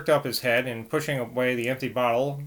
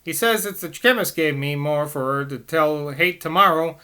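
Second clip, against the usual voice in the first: higher, urgent Cockney nurse; 3 semitones higher, 3 dB louder than usual. Acted. Nurse explaining the doctor's rule to the priest, urgent Cockney. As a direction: rattle it off in Cockney. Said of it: "I'm gonna have to do some Cockney".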